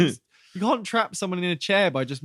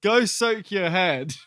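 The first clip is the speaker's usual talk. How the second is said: mock retort; 5 semitones higher, slower than usual. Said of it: "she says".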